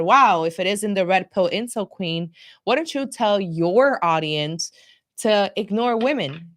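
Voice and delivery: mildly sarcastic retold jab. Retelling a reply to an online rival, mildly sarcastic. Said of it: "in a very sarcastic tone".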